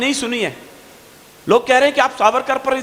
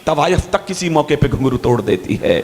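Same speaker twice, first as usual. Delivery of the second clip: poetry recitation; 3 semitones higher than usual. Acted. Poet reciting political couplets to an audience, declamatory verse.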